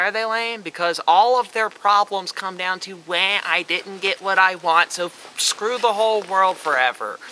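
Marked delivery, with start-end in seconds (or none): 3.1-7.2 whiny, sulky child voice, mocking; mock temper tantrum. A touch of mocking the Uchiha's tantrum. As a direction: pout it out like a spoiled kid, lightly. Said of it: "it's a temper tantrum".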